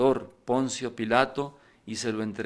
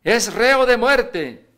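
slow, much higher and louder crowd cry; grito de condena; 11 semitones higher, 10 dB louder, much slower than usual. Acted. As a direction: call out the death verdict, drawn out. La multitud condena a Jesús. (grito lento y fuerte de condena)

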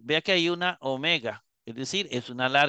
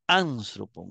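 Anstropon with the stress on AN, first syllable; acento en antepenúltima; 5 semitones lower, slower than usual. Shown as a demonstration. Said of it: "el acento sigue en la tercera". (Anstropon, con el acento en la primera sílaba, AN)

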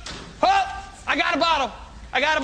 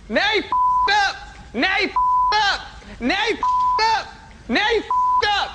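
gloating taunt; 3 semitones higher, slower than usual. Real, not acted. The speaker repeating taunt after insult.

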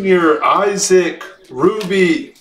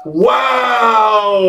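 amazed shout. Real, not acted. Breaker amazed at the card.

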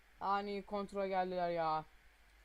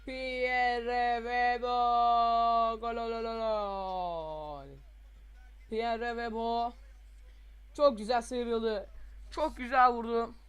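drawn-out loud goal call; screaming football commentator; 3 semitones higher, 6 dB louder, slower than usual. Pretend. Goal celebration, commentator style.

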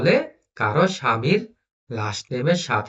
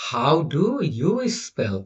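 slow reading; much slower than usual. Shown as a demonstration. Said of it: "দুই নম্বর কি বলছে".

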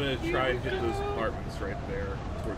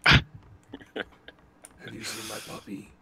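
very slow, drawn-out creepy ask; 5 dB louder, much slower than usual. Pretend. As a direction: ask it slowly like a lost creep. Mic voice prank.

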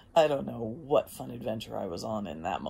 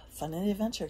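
higher, louder call of the motto; emphatic motto; 5 semitones higher, 4 dB louder, faster than usual. Real, not acted. Rallying her viewers with the motto, higher and louder. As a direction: sell the catchphrase with a lift.

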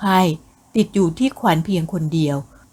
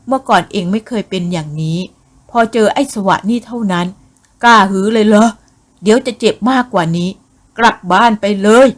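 angry scolding. Acted. Angry father scolding daughter.

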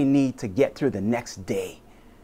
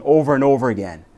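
quicker, pressing over and over again; over and over again, said faster with a push; faster repeat; faster than usual. Shown as a demonstration. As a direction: hurry the words over and over again. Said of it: "I mean".

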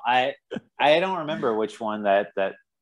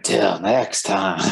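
very slow, stretched sign-off; slow drawn-out sign-off; much slower than usual. Real, not acted. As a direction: drag out the farewell slowly. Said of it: "I don't know what that was".

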